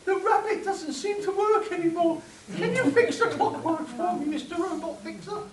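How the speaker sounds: hushed, genteel period drama; softly proper Regency manner; Jane Austen style. Acted. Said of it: "finish off with Jane Austen".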